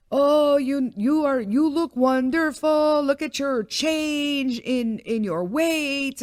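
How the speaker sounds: high, slow, booming-vowel South African imitation; bad South African accent. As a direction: gush like a South African doctor, badly faked. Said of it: "this is what he sounds like to me".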